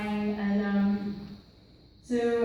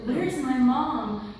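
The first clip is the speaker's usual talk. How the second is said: put-on boy asking for mom; 3 semitones higher, 4 dB louder, much slower than usual. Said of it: "he'd be like".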